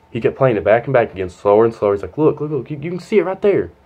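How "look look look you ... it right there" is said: high-pitched, insistent imitation; pitched-up "see, right there" insistence; insistent principal. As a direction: imitate someone urgently pointing at proof. Principal insisting while replaying the video.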